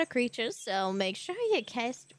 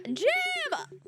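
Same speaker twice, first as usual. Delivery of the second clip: excited shout; 14 semitones higher than usual. Real, not acted. Excited at postman.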